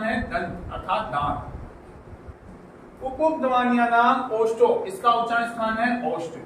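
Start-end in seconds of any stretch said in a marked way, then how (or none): 3.0-4.7 drawn-out intoned word, heavily stretched; teacher intoning a rule very slowly; very slow sutra recitation. Shown as a demonstration. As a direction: stretch each syllable of the sutra.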